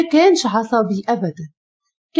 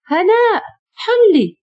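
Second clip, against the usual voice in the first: high, loud call to someone behind a locked door; raised pleading call; calling through a door; 10 semitones higher, 3 dB louder, slower than usual. Acted. Knocking hard, calling through door.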